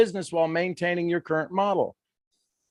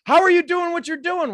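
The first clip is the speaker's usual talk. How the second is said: admiring; 11 semitones higher, 4 dB louder than usual. Pretend. Admiring question acted.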